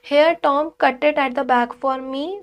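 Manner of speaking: bold and thrilled at her own daring; excited Maggie. Acted. Maggie eagerly asks Tom to cut the back, excited. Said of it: "excited at her own daring".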